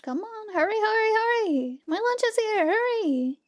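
high, pressing urge to hurry; urgent hurrying. Real, not acted. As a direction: hurry them along, impatient. Urging game character along.

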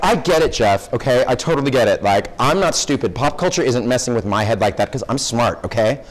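lightly voiced Valley girl, sassy; a hint of a defensive Valley girl. Teasing a student as a Valley girl, light sassy voice. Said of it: "a California Valley girl".

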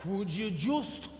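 very slow, drawn-out exasperation; hugely elongated, fed-up delivery; exasperated slow reply. Acted. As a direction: stretch every word out long to the fast talker. Exasperated local answers, drawing words out.

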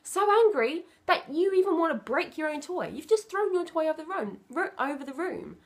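put-on name the child's feelings tenderly; soothing acknowledgement. Shown as a demonstration. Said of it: "just acknowledge their feelings".

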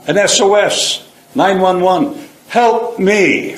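high, pleading cry for help; desperate plea for help. Retold or imitated. Broken man recalling his calls for help, high desperate plea. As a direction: reach up high as if calling an emergency line.

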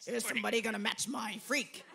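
retold call. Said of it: "I keep walking around going".

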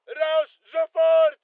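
high, drawn-out military command; urgent order. Acted.

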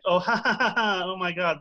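mock laughing. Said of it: "it's funny to be like".

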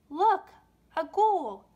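put-on high, loud startled shriek of little girls; frightened cry. Schoolgirls spotting a ghost in the attic, shrieking high and loud. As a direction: cry out as if you just saw a ghoul. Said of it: "The girls all cried".

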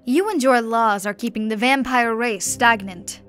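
chained duke shouting his defiance at the emperor; defiant shout. Acted. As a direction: shout the heresy at the throne. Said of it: "shouted the Duke".

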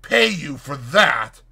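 appalled slow outcry; cry out. Acted. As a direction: recoil in disbelief. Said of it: "he cried".

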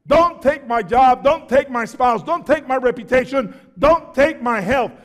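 mock demanding prayer. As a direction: mimic a bossy prayer. Voicing a presumptuous believer's prayer.

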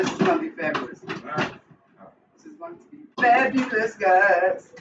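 excited. Real, not acted. Cook promising viewers the stew, excited. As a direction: sell the dish with glee. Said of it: "I'm so excited".

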